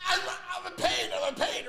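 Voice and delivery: mock cry of pain. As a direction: act out yelling in the dentist chair. Retold protest in the chair.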